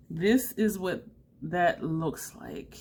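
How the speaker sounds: ordinary talk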